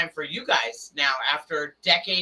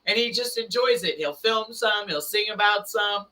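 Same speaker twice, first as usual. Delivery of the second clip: animated explaining; 5 semitones higher than usual. Retold or imitated. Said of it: "I'm like".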